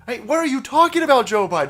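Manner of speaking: exasperated shout. Real, not acted. Angry rant at Biden.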